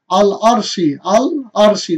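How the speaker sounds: thick r in আল আরশি; heavy R. Shown as a demonstration. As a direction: recite আল আরশি distinctly with a full, heavy r. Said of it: "রয়ের আওয়াজটা মোটা হয়". (আল আরশি-র র মোটা করে)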